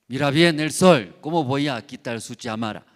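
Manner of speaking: a loud, boastful cloud who is sure it will win; cloud character voice. Acted. Cloud boasting to the sun, loud and proud. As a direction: push the boast loudly at the sun.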